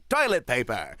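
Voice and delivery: "toilet paper" read in a falling announcer tone; 1940s announcer. Acted. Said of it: "could you announce the sponsor?".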